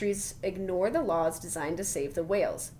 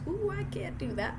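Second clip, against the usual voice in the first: surprised ooh; 11 semitones higher, 3 dB quieter than usual. Real, not acted. Reacting to toothed whales fact.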